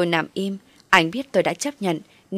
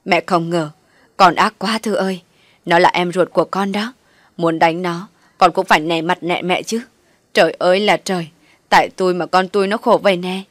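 louder, wailing lament; crying reproach; 6 dB louder than usual. Acted. Mother clutching Thoa, tearful reproach of her daughter. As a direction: wail and scold at once. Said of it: "vừa khóc vừa chửi tôi".

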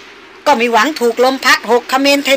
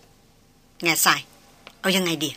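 much lower and softer, heavy words; low in the throat; 6 semitones lower, 9 dB quieter, much slower than usual. A narrator's reading. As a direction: speak it deep in the throat, troubled. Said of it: "ในที่สุดเขาก็พูดหนักๆในลำคอ".

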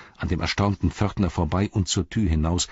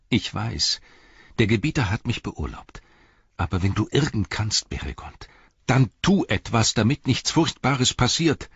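higher, earnest hobbit voice; urgent appeal, pitched up; pleading Pippin; 6 semitones higher than usual. Acted. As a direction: implore a friend to act, growing more insistent.

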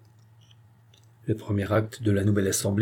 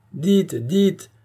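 eager higher cry, mildly louder; crowd shout; 8 semitones higher, 3 dB louder than usual. A narrator's reading. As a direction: urge him on with a cry. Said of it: "crièrent toutes les voix".

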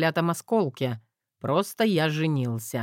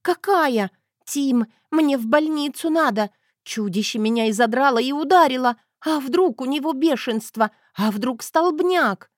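higher, louder frightened wife's voice; panicky young wife; 9 semitones higher, 5 dB louder than usual. A narrator's reading. Wife panicking to her husband about rabies, higher and louder. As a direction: fret and panic at full pitch.

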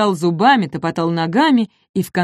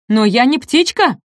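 louder protest; indignant exclamation; 5 semitones higher, 4 dB louder than usual. Acted. Дак возмущённо восклицает. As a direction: insist you're no bird. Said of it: "воскликнул птеродактиль Дак".

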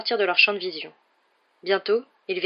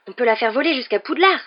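raised, louder burst of enthusiasm; excited; 5 semitones higher, 7 dB louder than usual. A narrator's reading. Boy proposing to fly the car, excited. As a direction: pitch it as a thrilling plan.

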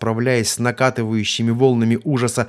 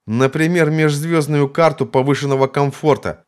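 higher, louder sneering voice; mock him, loud and high; jeering guard; 6 semitones higher, 5 dB louder than usual. Second guard joins the mockery.

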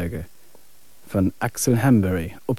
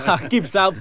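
laughing; 8 semitones higher than usual. Acted. Husband laughs at teasing.

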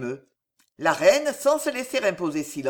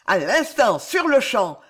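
louder and higher, demanding it right now; vociferating; 4 semitones higher, 4 dB louder than usual. Acted. The viscount demanding the duel right now, shouting. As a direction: bellow for an immediate fight. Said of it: "vociféra le vicomte".

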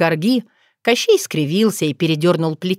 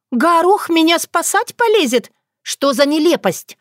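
high, scoffing; mocking disbelief; 9 semitones higher than usual. Otrada ridiculing Bogdan's claim, mocking. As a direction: throw up your hands at the absurdity.

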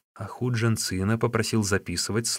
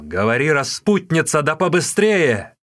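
a loud shout rising higher, slowing at the end; angry shout; 6 semitones higher, 6 dB louder than usual. Acted. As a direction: bark the order at her. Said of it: "воскликнул".

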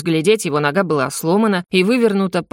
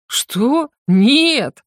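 loud indignant denial; 6 semitones higher, 3 dB louder than usual. A narrator's reading. Dragon indignantly denies drinking to the dispatcher, loud. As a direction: bristle at the accusation. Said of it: "возмутился я".

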